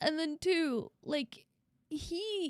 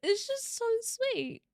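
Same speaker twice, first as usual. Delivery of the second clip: high, slow, crying voice; choked up with real tears; teary and moved; 8 semitones higher than usual. Real, not acted. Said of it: "gonna cry".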